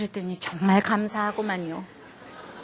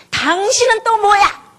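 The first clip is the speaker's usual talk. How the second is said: slow, much higher and louder; angry shout; 9 semitones higher, 7 dB louder, slower than usual. Retold or imitated. Husband snapping at the helper lady, slow angry shout. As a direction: yell it, glaring at the helper lady. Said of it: "이러면서 막 얘기를 하니".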